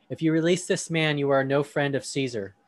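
a touch of sharp rebuke, read aloud; piercing rebuke. Acted. Religious leaders rebuking Pilate, understated sharp warning. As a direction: warn Pilate, mildly stern. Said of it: "a piercing rebuke".

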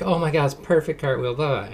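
mock-gushing, sarcastic praise. Dad mocking relatives' empty cartwheel praise, sarcastic. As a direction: gush over it with a sarcastic edge. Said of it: "sorry if I sound a little too sarcastic".

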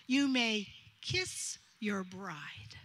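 slow, whispered pronouncement; hushed whisper. Retold or imitated. Officiant telling the groom to kiss the bride, whispered. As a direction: whisper it slowly like a secret blessing.

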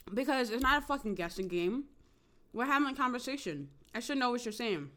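talking while chewing food; words round a bite of food; mouth full. Real, not acted. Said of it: "Sorry, guys, I'm eating".

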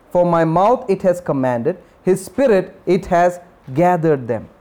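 slow, measured reading of the verse; scripture reading. Acted. Preacher reading Isaiah to the congregation, slow and measured. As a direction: lay each phrase down slowly for the church.

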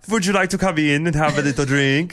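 lightly voiced jolly old German man, inviting; a hint of a cheery old man offering a drink. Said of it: "doesn't he sound like a jolly old man?".

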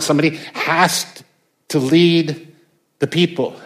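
firm, rising insistence; a touch of a commanding God; emphatic. Retold or imitated. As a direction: press every line home like a ruler laying down the law. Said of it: "The Lord is emphatically saying".

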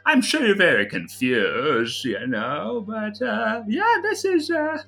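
a bumbling mage explains to a shocked father; cheery fumbling mage. Acted. GM voices Tigmar at length.

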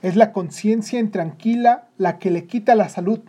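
severe, scornful judgement; accusing father. Acted. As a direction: blame the boy sternly, pressing every word. Father coldly blames the sick boy.

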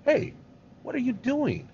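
high-pitched indignant challenge; crying out in protest. Acted. The people confronting Moses in the valley, indignant protest. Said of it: "started to cry against Moses".

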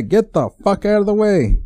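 high, fed-up traffic outburst; exasperated driver rant. Retold or imitated. Venting at slow drivers in traffic.

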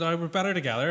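lightly voiced stranger quoting a slogan; imitating the recruiter. Mate retells a bar recruiter's pitch, lightly mimicked. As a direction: retell the recruiter's line, barely acted. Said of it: "I just went".

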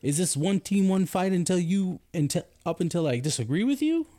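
high, laughing disbelief; incredulous laughing rant. Real, not acted. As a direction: push it up in amused outrage. Laughing, incredulous about orders.

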